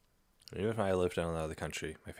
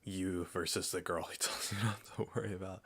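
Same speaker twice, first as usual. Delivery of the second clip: laughing read. Real, not acted. Rereading the meme caption to viewers, laughing through it. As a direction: laugh breaking through the words.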